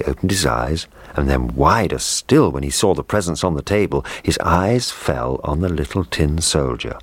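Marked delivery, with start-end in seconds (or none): none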